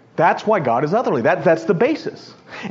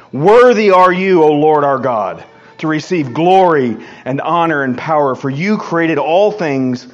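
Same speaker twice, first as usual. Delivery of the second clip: reverent proclamation; 4 dB louder than usual. Acted. Preacher voicing the elders' worship before the throne, proclaiming. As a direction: proclaim it with weight on the opening words. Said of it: "will cast their crowns before the throne, saying".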